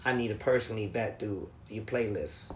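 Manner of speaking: low, quiet officious boss; mock boss. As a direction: drone it like a petty manager. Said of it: "He's like".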